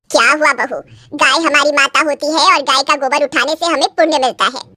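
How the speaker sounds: lightly voiced sanctimonious saas; a hint of a lecturing elder; preachy mother-in-law. Mother-in-law telling bride the cow is sacred, lightly preachy.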